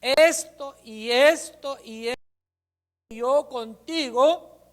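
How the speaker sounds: high, loud, slow and solemn proclamation; booming divine prophecy; voice of the Lord. Acted. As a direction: announce it like God speaking from above. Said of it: "dice el Señor".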